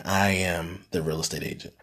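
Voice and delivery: a hushed echo of the mentor's words; hushed awe. Retold or imitated. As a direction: let it sink in quietly. Repeating the line in awe.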